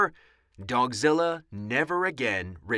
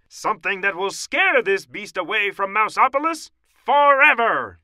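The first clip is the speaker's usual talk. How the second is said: high, loud, declaiming scientist; dramatic high-pitched professor voice; Professor O'Hare; 9 semitones higher, 10 dB louder than usual. A narrator's reading. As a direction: lecture with mounting urgency. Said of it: "said Professor O'Hare".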